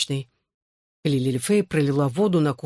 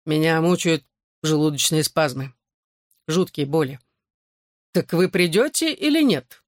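man's voice. Acted. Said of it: "снова заговорила мужским голосом".

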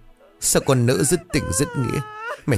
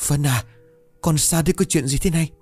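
much higher, anxious pleading voice; frantic mother; 8 semitones higher than usual. A narrator's reading. Mother holding her terrified daughter, frantic and high. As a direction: clutch her and ask in rising panic.

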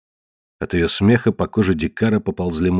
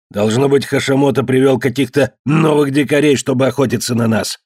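gruff hostile cave man, raised; rough beast-man voice; 5 semitones higher than usual. Acted. Ned to his family, suspicious of the stranger, gruff voice. Ned's character voice.

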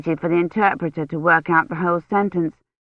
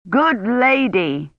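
nearly shouting; 5 semitones higher, much slower than usual. A narrator's reading. Gawain nearly shouting at Kivrin. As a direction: raise your voice to be understood. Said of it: "nearly shouting".

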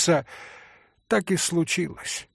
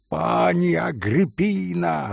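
shouting; 4 semitones higher than usual. Acted. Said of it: "закричал пан".

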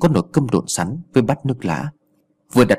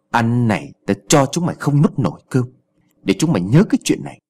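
arrogant. Acted. Village chief mocking the family after tipping their meal, haughty. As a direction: lord it over the family. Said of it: "giọng hách dịch".

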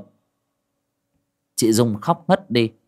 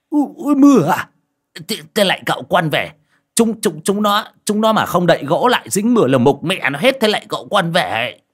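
put-on flustered old man; 8 semitones higher, 3 dB louder than usual.

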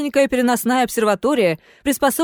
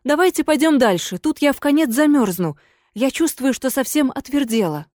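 higher, anxious ghost voice; pleading ghost lady; 4 semitones higher than usual. Acted. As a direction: urge him onward, freezing.

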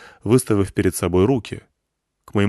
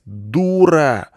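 imagined yell; 6 semitones higher, 3 dB louder than usual. Pretend. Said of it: "хотелось ... заорать".

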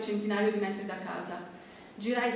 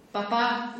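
called out; 2 semitones higher, 4 dB louder than usual. Acted.

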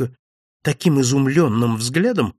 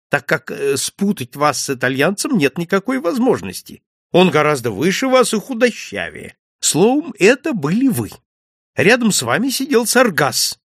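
higher, lively gossiping landlord; chatty innkeeper; 5 semitones higher than usual. Acted. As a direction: tell it like juicy village news. Innkeeper's long account. (болтливый хозяин с жаром пересказывает новости)

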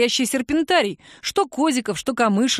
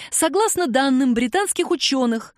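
learned cat voice; 5 semitones higher than usual. Acted. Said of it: "голосом учёного же кота затянул Драгин".

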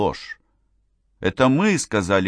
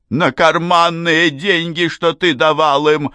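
"карманные" and "ты" pressed hard, higher and louder; stressed pocket money; 9 semitones higher, 6 dB louder than usual. A narrator's reading. Mother reproaching father, stressing карманные and ты. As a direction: lean on карманные and ты. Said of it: "Нажим, с которым мать произнесла".

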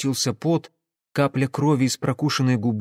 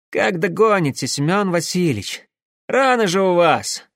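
raised, worried questioning; bewildered; 5 semitones higher, 4 dB louder than usual. A narrator's reading. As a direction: call back in confusion to a friend. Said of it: "откликнулся растерянный каббалист". (растерянный высокий отклик)

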